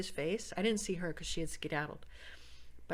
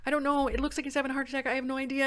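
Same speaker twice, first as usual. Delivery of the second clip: anxious answer; 7 semitones higher, 5 dB louder, faster than usual. Retold or imitated.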